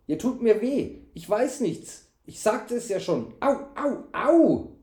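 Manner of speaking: high, pained whining protest; wail, rising to loud yelps at the end. A narrator's reading. Servant hurt by knight, loud wailing. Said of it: "Er jammerte so laut".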